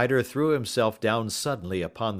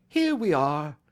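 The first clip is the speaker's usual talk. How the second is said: cheery; 8 semitones higher, 5 dB louder than usual. A narrator's reading. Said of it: "said Holmes cheerily".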